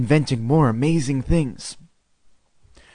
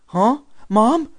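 confused; 10 semitones higher than usual. Acted. Waking confused from nightmare.

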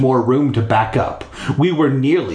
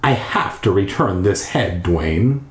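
calm and cold; 4 semitones lower than usual. Acted. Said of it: "he said calmly and coldly".

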